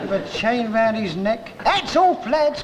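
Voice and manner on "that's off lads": foreman's cry. Retold or imitated. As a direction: shout it up to the lads. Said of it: "cried the foreman".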